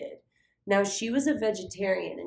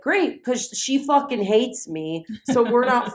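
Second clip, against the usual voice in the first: high sarcastic great; mock cheer; 5 semitones higher, 7 dB louder than usual. Sarcasm after losing friend.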